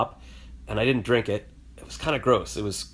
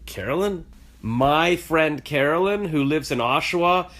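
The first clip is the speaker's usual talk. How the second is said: surprised; 5 semitones higher, slower than usual. Retold or imitated. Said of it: "And I'm like".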